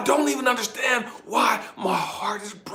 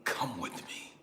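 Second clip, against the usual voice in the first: very soft, low telling of an eerie call; hushed summons; 8 semitones lower, 14 dB quieter than usual. Retold or imitated. The voice returns to the man in the tent, hushed. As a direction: drop right down for the unseen voice. The mysterious voice calls once more.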